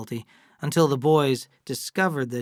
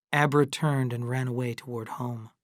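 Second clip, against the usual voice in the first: usual speaking voice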